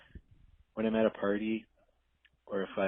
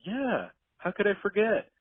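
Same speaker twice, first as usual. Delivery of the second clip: high, louder, playful boast; smug charm; 10 semitones higher, 7 dB louder than usual. Retold or imitated. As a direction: act like it was effortless. Smug retold reply.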